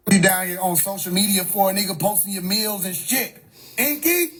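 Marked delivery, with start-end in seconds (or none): 3.8-4.3 high-pitched disbelieving question; high, baffled one-word query; incredulous. Real, not acted. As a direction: say the name like you can't believe it. Incredulous repeat of the name.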